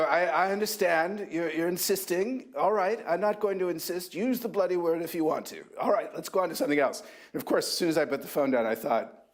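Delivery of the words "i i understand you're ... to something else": put-on higher mid-Atlantic accent, unhurried; lightly imitating a mid-Atlantic editor. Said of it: "he had this wonderful mid-Atlantic accent".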